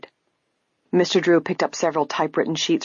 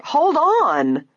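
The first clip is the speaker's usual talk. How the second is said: loud, high interruption; high, indignant outburst; crying out; 12 semitones higher, 5 dB louder than usual. A narrator's reading. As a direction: cry out to stop the reading. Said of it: "cried Missus Topham".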